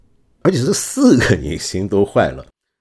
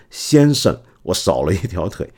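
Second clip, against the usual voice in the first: polite. Retold or imitated. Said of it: "很客气说".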